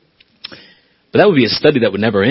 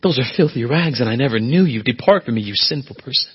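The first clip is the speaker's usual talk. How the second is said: softer, grave, final rejection; God's judgement; 6 dB quieter than usual. Retold or imitated. God turning away the self-righteous, soft and grave. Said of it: "God's going to say to them".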